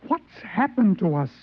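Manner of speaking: frantic, climbing pitch; rising despair. Acted. Frightened Hines pleading with the purser, panicked.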